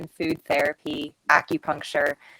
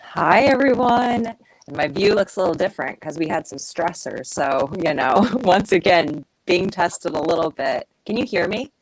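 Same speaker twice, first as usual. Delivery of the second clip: muffled, like talking underwater; bad connection, bubbly muffled sound. Real, not acted. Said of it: "You sound like you're underwater".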